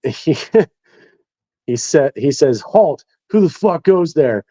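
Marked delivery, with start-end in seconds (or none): 2.6-4.4 high, drawn-out mock challenge; sentry's challenge. Point man challenging an unknown figure on night patrol, mock sentry challenge. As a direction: call out a retold sentry challenge, pitched up.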